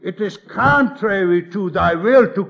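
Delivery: earnest pleading protest; protesting Abraham. Retold or imitated. Abraham pleading with God, earnest protest. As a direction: argue with God, distressed. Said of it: "Abram could have said".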